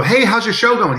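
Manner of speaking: high, bright hello to a friend at a con; cheery fan greeting. Retold or imitated. Fan greeting Phil at a convention, cheery and high. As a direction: greet him like an eager fan. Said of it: "he will always say this to you".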